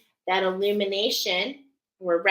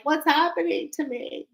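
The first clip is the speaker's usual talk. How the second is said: high, startled mock question; bewildered; 8 semitones higher than usual. Viewer suddenly startled by their own change, higher mock surprise. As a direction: squeak it out like you're caught off guard. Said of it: "you're like".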